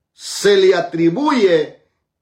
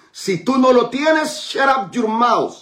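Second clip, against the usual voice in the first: stern rebuke; 7 semitones higher than usual. Real, not acted. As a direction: bark it out slowly, like a preacher scolding. Preacher rebukes the blasphemers.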